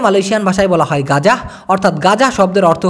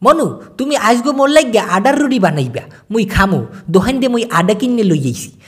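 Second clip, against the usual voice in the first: Barishal dialect; 2 semitones higher than usual. Retold or imitated. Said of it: "আমি শুনেছি ওরা বলে".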